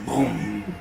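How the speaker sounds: low, drawn-out drum boom; deep boom like a drum. Retold or imitated. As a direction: imitate a distant low drum booming. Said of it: "low drum sound".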